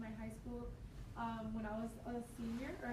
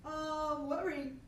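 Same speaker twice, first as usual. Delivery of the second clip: startled question; 5 semitones higher, 6 dB louder, much slower than usual. Retold or imitated. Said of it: "So I was just like".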